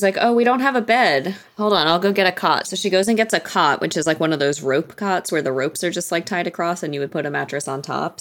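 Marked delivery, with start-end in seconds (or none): 0.2-2.7 mock realization. Wife stalling husband with excuses, retold.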